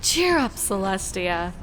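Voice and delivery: a cheerful little voice in her head; happy carefree voice. Acted. Cheerful inner voice urging Celestia to cheer up, bubbly. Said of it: "in its happy, carefree voice".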